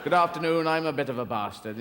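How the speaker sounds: put-on lightly posh southern English accent, long A in bastard; hint of posh English formality. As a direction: introduce yourself politely in mock posh English. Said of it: "you're very posh saying".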